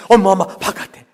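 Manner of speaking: loud, high repeated "mom, mom"; excited child calling. Acted. A child calling mom about the manna again. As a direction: call out breathlessly again.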